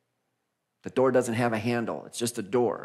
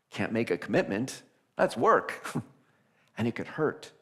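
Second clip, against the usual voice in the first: mock whiny excuse through a laugh; chuckling reluctant hero. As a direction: laugh off the commitment. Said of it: "start our journey and go".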